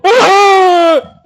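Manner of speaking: loud, high crying "ah"; put-on high wail of grief; mock wail. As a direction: wail out like mourning elders. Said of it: "Estaban llorando, diciendo".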